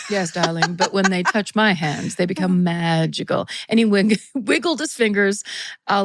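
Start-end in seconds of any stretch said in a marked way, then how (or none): 0.1-3.5 put-on loose, half-hearted British accent; light stab at a British rock star accent; attempted British accent. A rock guitarist explaining his magical pine cones, half-hearted British accent. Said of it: "I'm not doing a British accent correctly".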